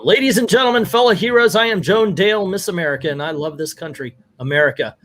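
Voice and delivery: lightly declaimed patriotic speech, opening high and sinking; podium speech. Acted. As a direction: open high like a podium announcer, then settle. Reads Miss America's podium speech aloud.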